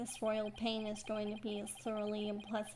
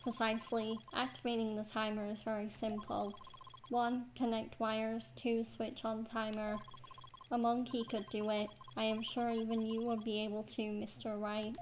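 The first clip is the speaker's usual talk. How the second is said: robot voice. Acted. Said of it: "He sounds exactly like a robot".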